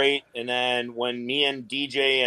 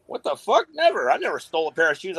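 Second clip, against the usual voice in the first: much higher, hammed-up shocked protest; mock outraged kids; 5 semitones higher, faster than usual. Kids protest to their dad in high mock outrage. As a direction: play the kids, scandalised at the idea. Kids' outraged reply, retold.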